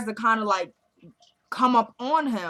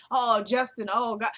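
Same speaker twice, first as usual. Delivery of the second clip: mock moaning. Wife faking noises for the listening mother, mock moaning. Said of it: "moaning Jeffrey's name, but nothing's really happening".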